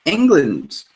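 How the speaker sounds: "England" with an eh at the start, ENG-lund; pronouncing the E. Shown as a demonstration. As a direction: sound out the E in "England". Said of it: "I'm trying to pronounce the E".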